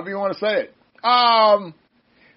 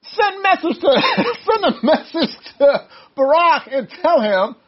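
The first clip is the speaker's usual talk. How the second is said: high, laughing through the words; barely holding back a laugh; breaking into laughter; 6 semitones higher, 5 dB louder than usual. Real, not acted. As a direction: start it, crack up, try it once more. Cracks up at own paraphrase.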